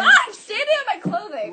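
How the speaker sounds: surprised. Real, not acted. Steps on clothes, cries out.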